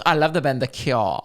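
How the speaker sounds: the band's name ending in an "or" sound, as "kyor"; mimicked pronunciation. Mocking how nobody names the band, its name said as "kyor". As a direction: quote it with the band's name made into "kyor". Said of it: "But it's not. No one goes".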